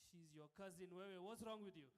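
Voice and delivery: loud scolding mother; scolding mom. Retold or imitated. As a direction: tell him off like an angry mom.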